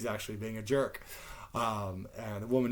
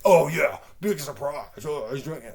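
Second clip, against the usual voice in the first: mock sarcasm; 3 semitones higher, 8 dB louder than usual. Retells sarcastic reaction to drinking.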